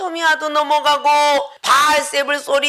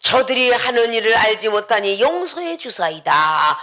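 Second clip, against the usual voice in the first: tender prayer; 4 semitones lower than usual. Acted. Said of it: "아주 아름다운 말씀을 하셨어".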